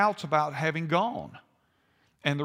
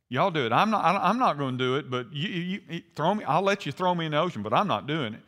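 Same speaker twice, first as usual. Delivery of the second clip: mock refusal; faster than usual. Jonah to the sailors about jumping overboard, mock refusal.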